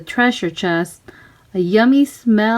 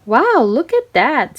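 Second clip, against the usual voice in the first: excited; 5 semitones higher, 4 dB louder than usual. Acted. Peter exclaims at ship.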